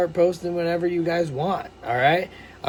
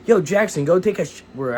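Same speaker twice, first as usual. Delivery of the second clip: imitating mom. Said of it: "my mom keeps yelling at me".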